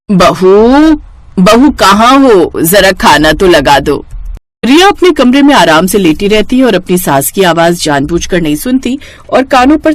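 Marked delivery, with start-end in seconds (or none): 0.1-4.1 slow, drawn-out call to the daughter-in-law from another room. Acted. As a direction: stretch out बहू like calling across the house. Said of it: "Vimla रिया को आवाज लगाती है". (धीमी, खिंची हुई पुकार)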